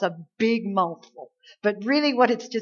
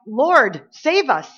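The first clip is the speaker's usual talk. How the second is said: panicked cry for help; 3 semitones higher, 6 dB louder, much slower than usual. Retold or imitated. Disciples wake Jesus in the storm, panicked plea. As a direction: cry out like men about to drown.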